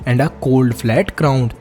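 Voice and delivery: slow, deliberate textbook reading; measured classroom read-aloud; reading aloud slowly. Acted. Reads textbook passage aloud.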